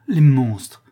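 loud, horrified curse; indignant outburst. Acted. Woman sees her lover suffering, indignant outburst. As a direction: burst out at the culprits.

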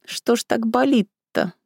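mild acted moan. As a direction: groan through the pain. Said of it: "простонала Вася".

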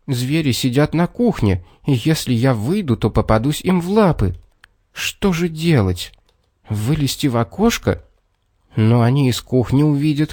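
a touch of worry while puzzling a way out; worried boy thinking. Acted. Юрк reasons to himself about warning his parents, lightly voiced worry.

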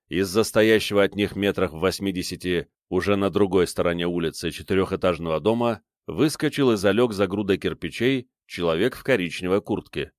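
usual speaking voice

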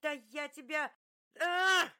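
very high, loud scream of rage; fury boiling over into a yell; raging scream. Acted.

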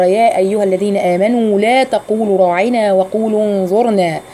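slow, measured tajweed recital; slow Quranic chant; Quran recitation. Shown as a demonstration. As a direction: recite the verse slowly.

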